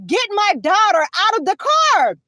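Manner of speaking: retold urgent demand. Handcuffed mother to officer about her daughter, retold urgent demand. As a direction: re-enact pressing an officer for help.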